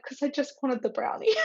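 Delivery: high, whiny complaint; mock whine. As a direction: whine like a disappointed kid over a brownie. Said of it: "I'm like".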